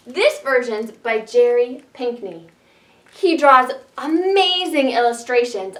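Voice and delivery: ordinary talk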